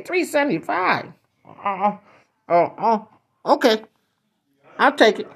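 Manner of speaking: high, halting disbelief; squeaky customer gulping at the cost; shocked stammer. Acted. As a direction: stammer over the price. Shocked at price.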